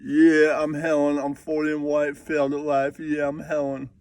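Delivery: breezy put-on Dante; Dante impression. Cat voiced as Dante, a lightly put-on Dante impression. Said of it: "that's my Dante impression".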